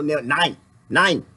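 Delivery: nein said as German, with a long n and a rising tail. Shown as a demonstration. Showing off German word friends taught, rising nein. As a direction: drill the German nein like a lesson. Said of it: "Friends teaching me German".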